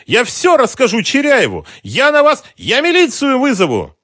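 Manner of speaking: very high, loud shrieking threat. A narrator's reading. Mara threatening the intruders, shrieking loud. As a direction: threaten them at the top of her voice.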